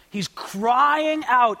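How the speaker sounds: CRYING stretched out very slowly; bold crying out. Retold or imitated. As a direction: draw out "crying" boldly. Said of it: "with perfect boldness".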